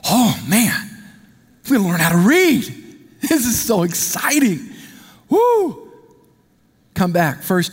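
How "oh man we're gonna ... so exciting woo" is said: put-on excited kid. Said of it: "I'm like".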